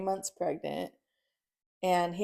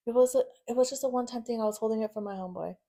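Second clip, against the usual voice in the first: hurried excuse; 4 semitones higher, faster than usual. Retold or imitated. Husband's excuse, retold.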